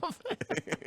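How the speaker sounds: high-pitched, laughing squeal; high fan voice. Pretend. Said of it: "You have to say".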